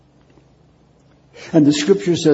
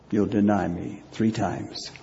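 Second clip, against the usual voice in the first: softer, solemn recall; hushed memory; 3 semitones lower, 6 dB quieter than usual. Acted. Peter recalling Jesus' warning, hushed. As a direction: remember it quietly.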